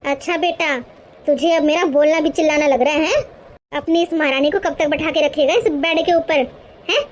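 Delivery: scolding mother-in-law. Acted. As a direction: bark at the lazy daughter-in-law. Mother-in-law rebukes son. (ग़ुस्से में डाँटती सास)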